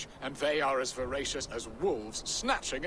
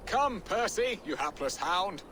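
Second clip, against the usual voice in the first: calling out; 6 semitones higher than usual. Acted. Calling the hound.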